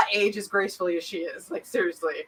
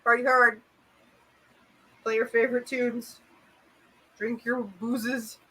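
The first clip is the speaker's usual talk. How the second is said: higher party host call; mock party host; 5 semitones higher, 6 dB louder than usual. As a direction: announce the party like a naughty kid. Mock party announcement to kids.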